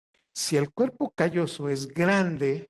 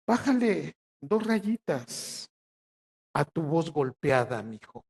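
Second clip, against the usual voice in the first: regaño materno lento y marcado; madre regañona; slower than usual. Retold or imitated. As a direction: imitando a una mamá que reprende, arrastrando las palabras. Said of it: "decía mi mamá, mi sacrosanta y violenta madre". (madre que regaña, lento y golpeado)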